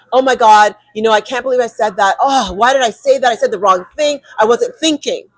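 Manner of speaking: quick, fretting replay of the mistake; beating yourself up after the meeting; mild anxious muttering to oneself; regretful self-scolding. Retold or imitated. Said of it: "you leave the space and you're like".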